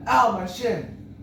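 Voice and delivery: slow, loud, high retold yelp; mock yell. Kid tripped on the street, slow loud yelp. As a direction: drag out the child's cry of pain. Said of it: "and I yelled".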